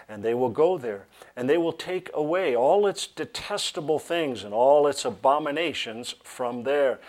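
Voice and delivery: loud, emphatic scripture reading; projected Bible reading. Real, not acted. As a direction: read it out to a congregation with weight. Reads scripture aloud to congregation.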